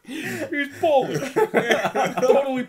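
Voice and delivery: laughing fake Polish accent; hammy Polish accent, giggling; mock Polish accent. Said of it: "How Polish people sound".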